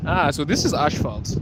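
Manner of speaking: lightly Germanized "asphalt"; a hint of mock German; German accent. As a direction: play at saying asphalt like a German. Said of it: "I'm saying it like a German".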